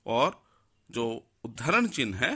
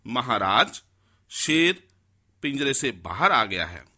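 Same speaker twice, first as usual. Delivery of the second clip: louder alarmed announcement, stressing शेर; urgent exclamation; 3 dB louder than usual. Shown as a demonstration. Teacher demonstrates the courtier announcing to the king, urgent and louder. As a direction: call out the news to the king with alarm. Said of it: "अब हम इसको कैसे बोलेंगे? देखिए".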